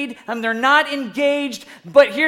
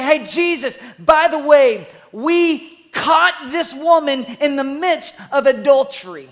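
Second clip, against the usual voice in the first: mock accusers calling out; 4 dB louder than usual. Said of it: "they look at Jesus and they say".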